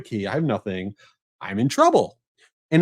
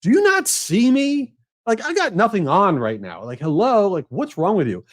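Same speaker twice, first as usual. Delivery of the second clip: incredulous inner rant; 6 semitones higher than usual. Retold or imitated. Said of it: "I'm like".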